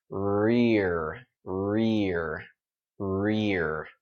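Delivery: "rear" drawn out with tight, rounded lips; tight-mouth pronunciation. Shown as a demonstration. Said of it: "the shape of my mouth when I say these".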